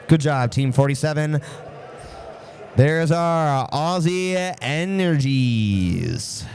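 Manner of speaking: slow, drawn-out team announcement; showy arena-announcer call; announcer shout. Real, not acted. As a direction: stretch the name out for the crowd.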